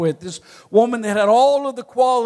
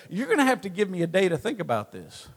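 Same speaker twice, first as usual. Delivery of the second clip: softly mimicked quick put-off; stalling reply; 3 semitones lower, 7 dB quieter, faster than usual. Mom answering dad's proposal, a quick soft stall. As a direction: imitate a quick, hushed hedge.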